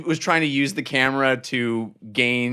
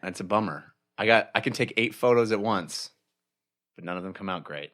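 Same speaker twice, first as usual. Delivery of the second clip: much lower, soft, mopey creature voice; glum octopus voice; 7 semitones lower, 5 dB quieter than usual. Acted. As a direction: voice a sulky octopus, low and quiet. Octopus still sulking.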